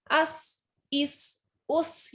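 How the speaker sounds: अस with a sharp whistling स. Shown as a demonstration. Teacher to class, whistling s sound. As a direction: hiss the स in अस, इस, उस. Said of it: "ये भी whistling letter है".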